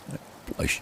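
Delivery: a breathless whisper of shame. A narrator's reading. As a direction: barely whisper it, ashamed. Narrator's shamed confession.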